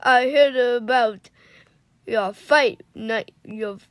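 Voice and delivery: put-on halting try at a Cajun accent; Gambit. Co-reader takes a turn as Gambit, attempted Cajun accent. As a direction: have a go at a Cajun accent, word by word. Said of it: "You wanna try it?".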